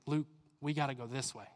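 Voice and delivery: low, soft personal urging; gentle calling. Acted. Jesus tapping on a follower's heart, gently calling. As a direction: quietly nudge them, voice dropped.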